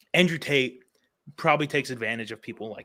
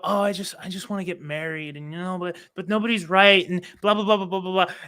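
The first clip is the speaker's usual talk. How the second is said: lightly raised mocking voice; a hint of a whiny girl; 6 semitones higher than usual. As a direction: parody her complaints. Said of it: "They go".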